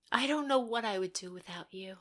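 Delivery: a tender, breathless whisper; heartfelt whisper. Acted. Thanking the panel in a sincere whisper.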